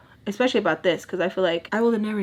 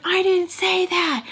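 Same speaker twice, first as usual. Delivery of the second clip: much higher, louder, drawn-out protest; heated denial; 11 semitones higher, 4 dB louder, slower than usual. Retold or imitated. Mom denying her words mid-fight, high and indignant. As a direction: snap back as if falsely accused. Retold heated custody argument.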